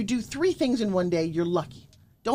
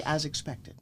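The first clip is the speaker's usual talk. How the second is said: calm matter-of-fact; 4 semitones lower, 6 dB quieter, slower than usual. Shown as a demonstration. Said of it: "I want you to say".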